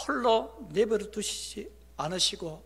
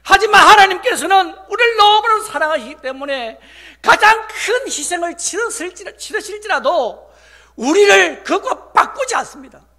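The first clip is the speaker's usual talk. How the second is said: loud, high, impassioned proclamation; full-force preaching; 11 semitones higher, 17 dB louder than usual. Real, not acted. Pastor proclaiming Christ gave up everything, preaching at full force. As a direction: ring it out over the congregation.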